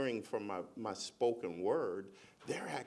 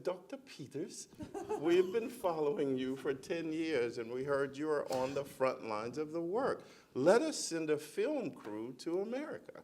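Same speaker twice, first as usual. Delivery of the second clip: lightly imitated British accent, pitched higher; 6 semitones higher than usual. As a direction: put on a hint of a British accent. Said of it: "In that British accent, they said".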